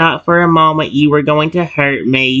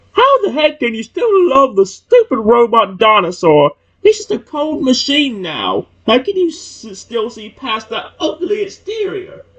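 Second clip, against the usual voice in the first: sneering, angry mockery, high and swooping pitch; 7 semitones higher than usual. Reading a rival's taunt about the robot dinosaur aloud: mocking and angry voice. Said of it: "saying in a mocking and angry voice".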